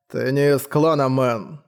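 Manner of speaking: put-on slow, creaky, menacing old voice; slow ominous raspy drawl. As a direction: rasp it out like a sinister elder. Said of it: "зловещим и скрипучим голосом".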